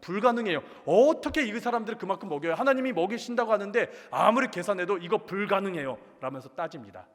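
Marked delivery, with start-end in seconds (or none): 0.0-6.0 acted-out objection, pitched higher; incredulous protest. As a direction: argue back in disbelief, voice raised in pitch. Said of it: "그러면서 하나님께 따집니다".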